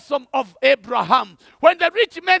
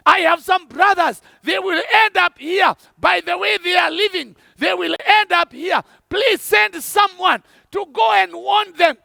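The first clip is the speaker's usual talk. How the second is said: pleading rich man; 2 semitones higher than usual. Acted. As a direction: beg Abraham to warn his brothers, rising and desperate. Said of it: "he pleads with Abraham and says".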